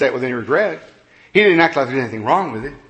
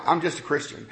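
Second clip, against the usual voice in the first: softer, mock humble I'm just a Christian; quiet mock repeat; 8 dB quieter than usual. Preacher mocking a member's excuse, softly. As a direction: say Christian shrugging it off. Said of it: "mocking repeat, much softer".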